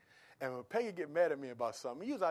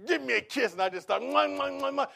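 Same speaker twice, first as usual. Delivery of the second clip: playful kissing; 10 semitones higher, 10 dB louder than usual. Retold or imitated. Playfully smothering angry wife.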